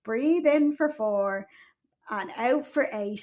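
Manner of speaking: slow, drawn-out count; slow breathing count. Retold or imitated. Mother repeating her labour mantra, slowly. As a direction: pace it like a breathing coach. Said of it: "I kept saying".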